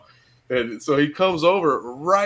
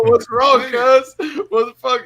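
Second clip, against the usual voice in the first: retold loud question; 11 semitones higher, 9 dB louder than usual. Retelling asking crying friend.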